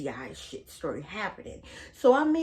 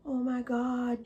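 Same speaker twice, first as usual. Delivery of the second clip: hushed gossiping whisper; mock whisper; 5 semitones higher, slower than usual. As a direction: whisper it like sharing a secret. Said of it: "she's like".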